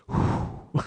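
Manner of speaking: voiceless puff of relief; relieved exhale. Retold or imitated. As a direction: blow out a relieved "whew". Mimes relief at dodging middle seat.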